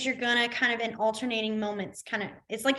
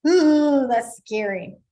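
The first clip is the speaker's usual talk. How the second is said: mock scared; 7 dB louder, slower than usual. Shown as a demonstration.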